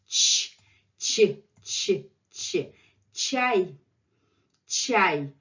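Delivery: ch, ch then chai; ch sound drill. Shown as a demonstration. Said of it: "ch drill".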